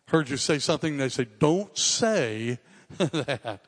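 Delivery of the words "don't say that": slow, stretched parent warning with a laugh; emphatic parent. Retold or imitated. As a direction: drag it out like a mom scolding, half laughing. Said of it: "pretty emphatic".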